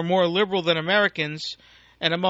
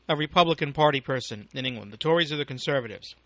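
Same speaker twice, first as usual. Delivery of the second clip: talking with food in mouth; words round a bite of food; mouth full; 3 semitones lower than usual. Real, not acted. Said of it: "Excuse me, I had something in my mouth".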